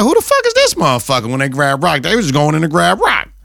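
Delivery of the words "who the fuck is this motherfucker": high, fast mock mobster outburst; imitating a mobster's shout, pitched up; mobster quote. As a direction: squeak it out fast like a startled thug. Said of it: "they like".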